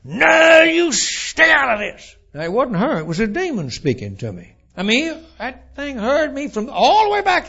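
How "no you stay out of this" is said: much higher and louder, slower shrieked reply; screaming. Retold or imitated. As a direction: scream it back with full force. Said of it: "screamed at the top of her voice".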